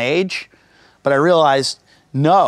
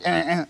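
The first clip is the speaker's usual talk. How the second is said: auto pen noise; 5 dB quieter than usual. Retold or imitated.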